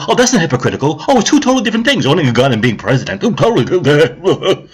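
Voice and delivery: lightly mocking take on defensive supporters. Rant host parroting her supporters' excuses, mocking. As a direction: imitate excuse-making supporters, drawing out the final words. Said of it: "And her supporters go".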